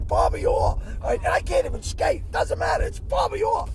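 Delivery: high, loud rave about a hero; excited raving. Real, not acted. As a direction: shout his name in awe. Raving about his idol.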